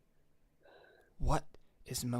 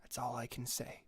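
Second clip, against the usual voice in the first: soft condolence; 10 dB quieter, faster than usual. Acted. GM voicing Isaac soft condolence.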